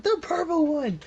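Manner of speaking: high, loud answer; guard yelling the answer back. Acted. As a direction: shout it down the hall. Guards shouting across hallway.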